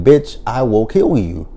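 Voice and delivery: mocking repeat. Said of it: "have we not learned our lesson from saying".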